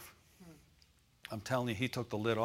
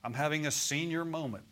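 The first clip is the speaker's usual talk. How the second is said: mock self-put-down; 4 dB quieter than usual. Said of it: "don't ever say things".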